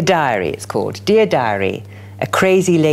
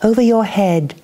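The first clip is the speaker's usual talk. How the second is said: measured, dramatic poem reading; poetry reading; 2 semitones higher, slower than usual. Acted. Poet performing a crazy lady's blues song poem, measured and dramatic. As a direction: let each image land for the room. Reads Langley Chapel poem aloud.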